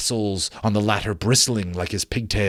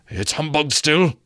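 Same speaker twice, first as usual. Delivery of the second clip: put-on higher, stubborn old miser; Scrooge defiant; 6 semitones higher than usual. Scrooge brushing off the ghost, stubborn scoff.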